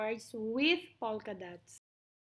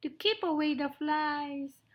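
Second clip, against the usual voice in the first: higher, eager mouse voice; little mouse, eager; 5 semitones higher than usual. Acted. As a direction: offer help as a tiny mouse.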